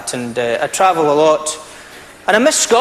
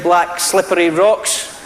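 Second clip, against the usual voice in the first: slow savoured phrase; slower than usual. Shown as a demonstration. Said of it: "I'm glad I said that right".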